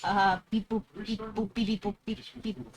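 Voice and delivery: mock glitching robot; robot beeps. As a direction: beep like a broken machine. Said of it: "my thing glitched".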